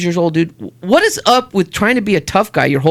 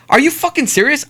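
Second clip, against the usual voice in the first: higher-pitched, incredulous retold anger; pissed off; 7 semitones higher than usual. Dad confronts two guys outside Denny's, pissed-off disbelief. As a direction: challenge them in indignant disbelief. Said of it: "I get pissed".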